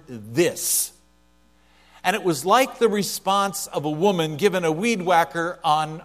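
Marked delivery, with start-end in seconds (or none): 0.1-0.9 "this" set apart and stressed. Shown as a demonstration. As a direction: lean on the word "this". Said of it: "The emphasis is on the word".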